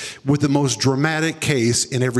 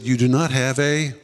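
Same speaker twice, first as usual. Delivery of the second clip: voice of the Holy Spirit; 2 semitones lower than usual. Retold or imitated. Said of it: "the Holy Spirit spoke to me a second time".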